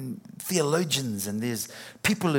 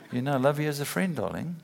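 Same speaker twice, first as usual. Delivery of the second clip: laughing let-down; 2 semitones higher, faster than usual. Retold or imitated. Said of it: "romantic oak".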